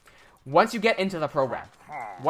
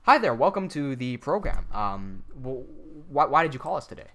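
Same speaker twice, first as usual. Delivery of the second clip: robotic salesman; 3 semitones lower than usual. Pretend. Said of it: "I'll pretend to be the salesman".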